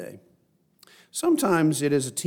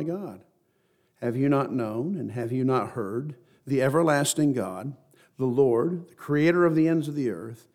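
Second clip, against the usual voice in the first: scripture reading. Real, not acted. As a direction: read it out solemnly, stretching the key phrases. Reads scripture aloud to congregation.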